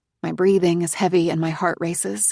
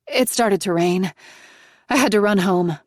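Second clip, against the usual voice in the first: 1 breathless excuse; 2 semitones higher, 5 dB louder than usual. Acted. Daughter explains, out of breath.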